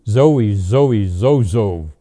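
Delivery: put-on loud toddler call; hammed-up baby cry; baby shout. A narrator's reading. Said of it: "Baby Louie shouted".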